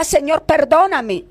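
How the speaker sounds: urgent, pleading confession; retold shouted plea. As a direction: imitate a pastor crying out in repentance. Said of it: "otro pastor gritaba y decía".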